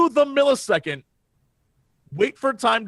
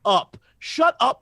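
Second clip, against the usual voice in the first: disbelief; 4 semitones higher, much slower than usual. Retold or imitated. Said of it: "I was like".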